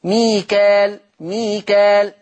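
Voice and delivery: ميكال with a plain long a and no hamza; natural long vowel. Shown as a demonstration. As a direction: say ميكال twice, long a with no break. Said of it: "فتصير مد طبيعي".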